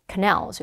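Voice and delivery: "canals" as ca-NALS, light first syllable; second-syllable stress. Shown as a demonstration. Teacher repeats for pronunciation practice, "canals" stressed on the end. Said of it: "이렇게 발음되고요".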